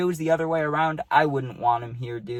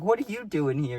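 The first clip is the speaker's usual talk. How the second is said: higher, puzzled question; not mad, surprised; 4 semitones higher than usual. Retold or imitated. Teammate to friend, puzzled but not mad. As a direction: ask it curious, with no anger. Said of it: "exactly how I said that".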